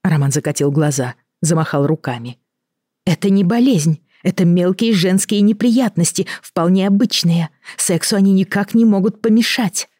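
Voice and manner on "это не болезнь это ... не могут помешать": higher, precise, as if reading a script; measured, rehearsed delivery; crisp recitation. Acted. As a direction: recite someone else's words clearly. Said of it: "чётко произнесла Елена, словно читая чужой текст".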